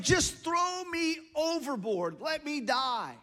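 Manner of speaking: high, drawn-out mock plea; desperate surrender. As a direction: stretch it out, acting resigned to drowning. Jonah begging to be thrown overboard.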